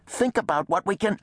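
high, pleading, cut off mid-thought; urgent plea. A narrator's reading. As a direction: plead until interrupted. Second man pleads, gets cut off.

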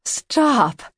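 loud, high furious bark; angry command. Acted. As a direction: howl the order like a great wolf. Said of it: "An angry howl".

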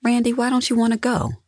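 very high, quick question; high-pitched, hurried sisterly probing; pressing for explanation. A narrator's reading. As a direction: press her, pitched right up. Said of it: "wanting a more detailed explanation".

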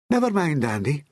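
high, kindly comfort; lightly cheering him up; smiling reassurance. A narrator's reading. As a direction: soothe with a smile in the voice. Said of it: "Julie smiled".

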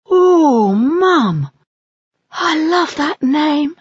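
high, loud delighted cry; delighted owlet. Acted. Soren thrilled by his sister's name, high and eager. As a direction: gush with childish delight. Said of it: "Soren said".

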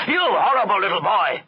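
furious master bellowing; angry roar. A narrator's reading. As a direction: roar it at a naughty boy. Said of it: "he roared".

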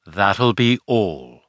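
slow, calm dismissal; dismissive. Acted. Nicholas dismissing his men, slow and calm. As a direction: close the matter, unhurried. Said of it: "he said, dismissing the men".

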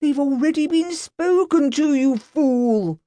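mock furious gentleman yelling; angry shout. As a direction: snap at the constable in anger. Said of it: "Grant shouted".

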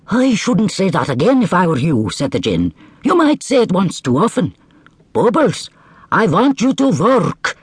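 high, stern warning; warning djinn. Acted. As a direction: threaten gently. Djinn warns camel.

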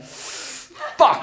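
breathy dismayed whisper, high; whispered curse. Retold or imitated. Caught without wallet, whispered curse. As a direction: mouth a curse under your breath.

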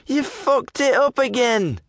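slow, strange-voiced lout; hidden thug. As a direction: drawl the blame, slowly. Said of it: "it went on".

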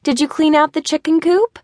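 mother checks on the chores from afar; mom calling a question. A narrator's reading. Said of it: "his mom asked".

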